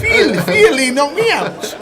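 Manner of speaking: very high, hammed-up Russian accent; bad Russian accent. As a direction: badly fake a Russian voice, pitched right up. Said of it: "That's my best Russian accent".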